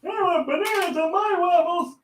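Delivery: high put-on whine; silly old-person voice. Friend joining the senior bit, high silly whine. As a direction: demand it in a high comic voice.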